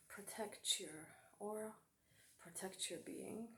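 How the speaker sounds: soft, hushed storyteller's caution; hushed warning. Acted. Storyteller warns dear friends to protect their aura, hushed. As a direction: drop the voice to warn them, pausing between phrases.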